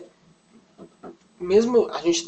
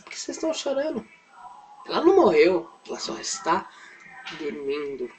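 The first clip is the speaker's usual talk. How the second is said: simple matter-of-fact Jesus. Retold or imitated. Jesus to the crying crowd, lightly acted simple manner. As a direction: lightly act a simple question and answer. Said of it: "Bem simples".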